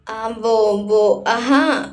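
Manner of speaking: halting fillers, searching for words; hesitant, unsure. A narrator's reading. Virat fumbles for a lie to tell the boy, hesitant. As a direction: stall while you invent an answer. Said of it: "असमंजस भरे स्वर में बोला".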